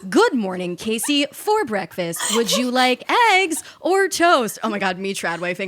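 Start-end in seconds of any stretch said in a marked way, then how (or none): 0.1-4.6 hint of an old Hollywood transatlantic lilt; transatlantic accent. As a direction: play a polished old-time starlet lightly. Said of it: "transatlantic accent of today".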